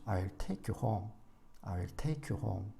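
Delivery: I'll take you home, slow, take and home long and strong; I'll quick and light, lean on take and home; slow stressed take and home. Shown as a demonstration. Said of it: "강하고 길게 읽는 것은 I'll take".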